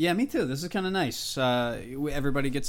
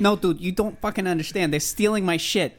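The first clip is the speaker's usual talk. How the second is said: imitating Brian Redband; 6 semitones higher than usual. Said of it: "argues for like an hour about RSS feeds".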